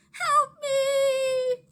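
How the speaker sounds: high, loud desperate cry; cry for help. A narrator's reading. Maria begging cousins to help her, loud panic. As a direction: call out in full panic. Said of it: "Maria cried".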